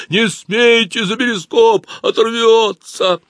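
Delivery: high slow frightened cry. Acted. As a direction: cry out in fear to stop them. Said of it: "испуганный Вовкин голос".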